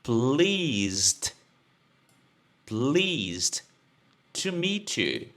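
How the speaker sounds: "Pleased" with a voiced ending like "pleezd"; careful model of "Pleased to meet you"; model pronunciation. Shown as a demonstration. Teacher pointing students to the pronunciation of "Pleased". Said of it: "veja só a pronúncia aqui".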